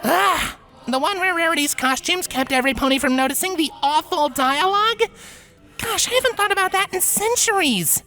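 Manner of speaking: amused recall. Acted. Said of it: "The unicorn gasped".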